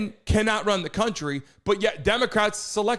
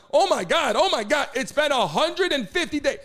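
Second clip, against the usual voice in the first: mock panic; 6 semitones higher than usual. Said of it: "People in the chat were like".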